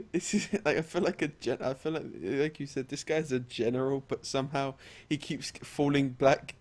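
laughing as you talk; tickled, breaking into laughter; amused. Real, not acted. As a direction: start high through a laugh, then settle. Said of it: "I just find that funny".

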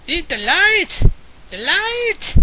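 high, loud triumphant yelling; battle yell. Real, not acted. Gamer yelling at Voldemort mid-fight, high and loud. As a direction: scream it like a war cry.

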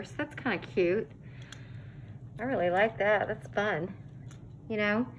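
talking through a face mask; muffled through mask. Real, not acted. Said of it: "I hope y'all can hear me with this mask on".

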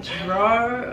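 DRAWER questioned, r sounded at the end; mildly baffled repeat of DRAWER with its r; puzzled Georgia echo. Retold or imitated. Georgia friends questioning the New Yorker, puzzled DRAWER with an r. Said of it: "And they were like".

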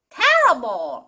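terrible with the beat on TER; first-syllable stress. Shown as a demonstration. Teacher repeating the model, terrible stressed on "TER". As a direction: say terrible as TER-ri-ble, falling away after TER. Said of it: "이렇게 됩니다".

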